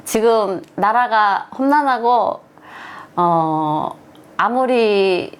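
a hint of a rally speech, North Korean accent; lightly declaimed North Korean slogan speech. Shown as a demonstration. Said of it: "이런 구호 같은 거를 외치고 하거든요".

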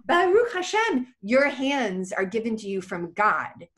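high, slow, solemn rabbi voice; rabbi's blessing. Retold or imitated. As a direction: bless her slowly like the old rabbi.

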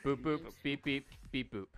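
beep-boop robot talk. Pretend. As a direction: chirp it like a little robot. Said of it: "talking like robots".

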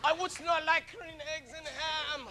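slow, grand theatrical delivery, stretched out; lightly hammed-up Shakespeare; mock Shakespearean actor. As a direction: ham it up like a stage actor.

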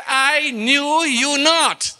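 very slow, solemn pronouncement of God; slow, grave divine rejection. Acted. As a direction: draw out each word like a final judgment. God's reply quoted in scripture.

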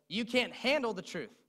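Jack Nicholson shout. Retold or imitated. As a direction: bellow it like the colonel on the stand. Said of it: "And Jack Nicholson says".

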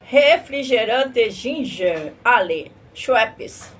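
drawn-out product announcement; slow ad read. Acted. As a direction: stretch it out like a commercial.

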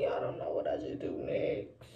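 low conspiratorial whisper. Real, not acted. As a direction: whisper it to the viewers. Whisper to viewers.

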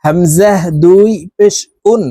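উন begun with a glottal catch; alif as hamza. Shown as a demonstration. Teacher shows alif read as hamza. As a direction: catch the breath before উন. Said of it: "আলিফকে হামজাহ বলে উচ্চারণ করতে হবে".

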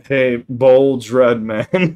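slow, loud, drawn out close to the mic; eating the mic voice. Pretend. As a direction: stretch it out right on the mic. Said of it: "The old eating the mic voice".

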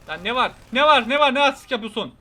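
loud, high challenge; yelling at a guy who won't stop staring; angry shout. Acted. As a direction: bark it like a street tough picking a fight. Confronting a character in game.

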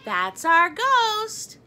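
high, loud, very drawn-out cry; big, stretched storybook exclamation; proud exclamation. A narrator's reading. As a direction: sing out each word slowly with delight. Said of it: "So the Scotts could say".

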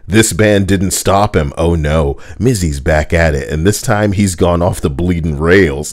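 hammy Cockney script read; lightly put-on Cockney storyteller; mock Cockney, playing up the outrage; Cockney accent. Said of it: "Why is this in the Cockney accent too?".

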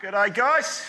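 loud, high, hammed-up Aussie accent; Australian accent. Contestant three trying to pass as Australian, hammed-up Aussie accent. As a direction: belt out an Australian introduction, stretching the end. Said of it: "The rest are putting on an accent".

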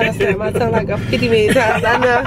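talking with gum in mouth; words wet round a wad of gum; chewing gum. Real, not acted. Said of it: "I got this gum in my mouth".

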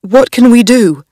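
a hint of a scared young husband, pleading; lightly voiced frightened husband begging his wife. Darnley frightened.

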